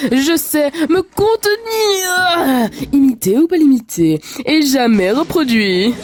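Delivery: hammy cartoon magic spirit; big showman spirit from a lamp; genie. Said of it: "le doublage du génie".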